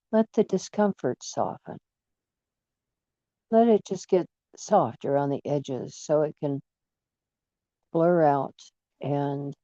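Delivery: unhurried relaxation guide with long pauses; guided meditation. Acted. Guide talks listener through relaxing feet and calves, meditation delivery. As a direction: ease them into relaxing, phrase by phrase.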